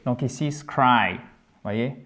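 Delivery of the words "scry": scry drawn out and falling; stressed syllable. Shown as a demonstration. Teacher points to the accented syllable, stressed scry. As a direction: give scry full weight on the eye vowel. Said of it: "c'est ce qui est accentué".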